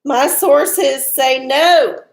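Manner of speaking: slow, drawn-out fortune-teller pronouncement; ominous oracle reading. Pretend. Reading the Magic Eight Ball's answer, slow and ominous. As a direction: deliver "My sources say no" like a doom verdict. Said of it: "It said".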